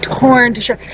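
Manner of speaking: "torn to shreds" set apart after a pause; weighty stress on "torn to shreds"; emphatic. Real, not acted. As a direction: hit "torn to shreds" hard as a repeat. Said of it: "I cannot stress this enough".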